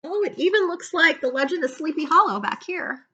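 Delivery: ordinary delivery, nothing marked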